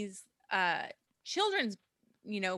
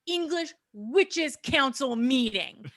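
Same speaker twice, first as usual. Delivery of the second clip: lightly put-on German accent, slow and louder; 3 semitones higher, 5 dB louder, slower than usual. Telling friends the witch plot in a mild German accent. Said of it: "your German accent".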